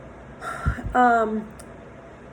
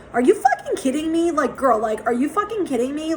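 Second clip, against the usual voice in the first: a little aggressive; 4 semitones higher than usual. Retold or imitated. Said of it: "it was a little bit aggressive".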